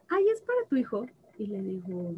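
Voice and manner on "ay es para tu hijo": imitating old lady. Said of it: "Me empieza a preguntar".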